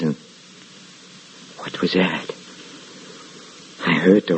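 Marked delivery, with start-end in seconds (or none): 1.6-2.3 a low, hushed startle; startled, hushed. Acted. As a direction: freeze and listen. Alone at night, hears a noise.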